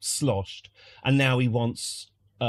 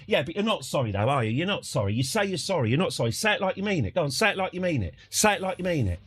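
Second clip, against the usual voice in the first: mock badgering, pushing each phrase; imitated berating; 3 semitones higher, faster than usual. Dad demanding a proper apology from the barman, berating. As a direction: needle him like an affronted customer. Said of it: "this sort of berating".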